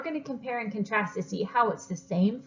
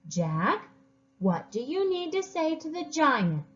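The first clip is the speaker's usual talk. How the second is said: angry mother; 2 semitones higher than usual. Acted. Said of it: "very angry woman".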